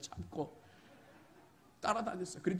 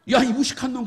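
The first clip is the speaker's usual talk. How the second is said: mock insult; 8 semitones higher, 13 dB louder than usual. Insult shouted at fool.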